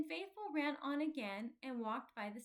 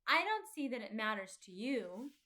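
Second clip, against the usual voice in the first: crossly; 6 dB louder than usual. Acted. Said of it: "answered crossly".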